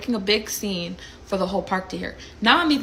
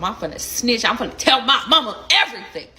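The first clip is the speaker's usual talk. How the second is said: playful threat; 3 semitones higher, 4 dB louder than usual. Retold or imitated. Playfully threatening brother with snitching.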